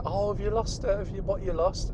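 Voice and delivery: imitating dog walkers. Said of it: "and they say".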